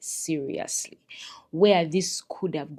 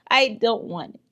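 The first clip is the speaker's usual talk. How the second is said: louder, higher, firm rejection; emphatic refusal; 5 semitones higher, 6 dB louder than usual. Real, not acted. Refusing the Kenyan accent to viewers, emphatic. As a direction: push it away loudly.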